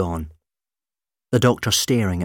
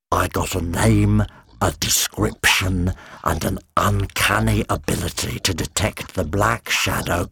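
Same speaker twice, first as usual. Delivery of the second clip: slow monster voice. Acted. Monster explains slowly.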